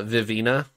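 Vivina with a long "ee" in the middle; author's pronunciation. Retold or imitated. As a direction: say Vivina as "vi-VEE-na". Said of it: "is how he says".

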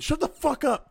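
high, loud imitation of a fed-up friend; mock angry outburst. Friend imitating player told to check equipment, mock angry. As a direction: burst out as the irritated player, playing it up.

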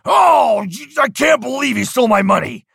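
high, loud shout of stolen money; mock upset outburst. Shown as a demonstration. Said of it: "See, I can easily be upset".

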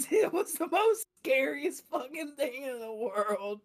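hushed, breathy laughing whisper; whispering about a scary dad. Real, not acted. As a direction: drop to a whisper in dread.

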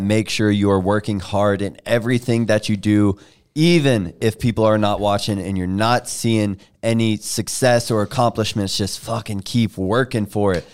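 rushed, running out of air; all in one breath. Real, not acted. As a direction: say it all without stopping for breath. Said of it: "I'm out of breath".

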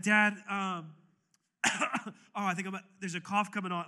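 nervous fake-cough excuse, hammed up; awkward stalling. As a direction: fumble for an excuse. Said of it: "like, so awkward".

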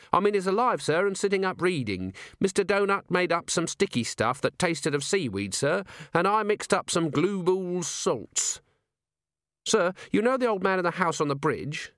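an earnest junior officer reporting; eager young dwarf. A narrator's reading. Littlebottom reports to Vimes.

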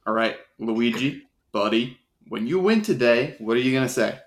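soft coaxing coach; quiet. Acted. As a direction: coax him gently, hushed. Coach coaxes backstage.

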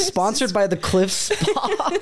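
ad announcer voice. Pretend. Jokes about getting sponsored.

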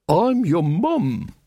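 slow, flat, exasperated mum. Acted. Mother tells her son off from below, slow and exasperated. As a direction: drag it out, losing patience.

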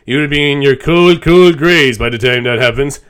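slow, loud cartoon dad; Homer voice. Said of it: "And he's like".

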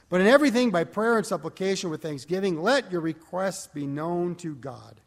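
scripture reading. Acted. Preacher reading Philippians aloud to the congregation, declaiming. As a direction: proclaim the text to the congregation.

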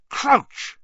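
sharp startled cry of a name; shocked shout. Acted. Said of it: "Snape said, stopping dead".

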